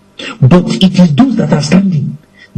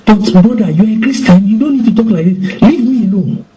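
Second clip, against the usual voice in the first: angry brush-off; 7 semitones higher than usual. Retold or imitated. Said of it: "Somebody is encouraging and saying".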